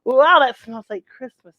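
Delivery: high, loud gasp of wonder; childlike wonder at the smell; amazed wow. Retold or imitated. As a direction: breathe it in like a kid at grandma's door. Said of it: "I'd be like".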